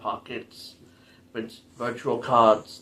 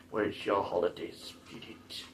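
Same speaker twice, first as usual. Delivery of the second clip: put-on Arnold Schwarzenegger accent; 5 semitones lower, 12 dB quieter than usual. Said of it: "doing the Arnold impression".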